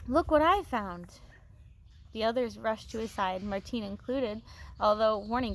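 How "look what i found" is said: louder, slow, thrilled announcement; excited. A narrator's reading. Luke calling the others to the goose, excited. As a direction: show off your find, slowly. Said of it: "His voice was excited".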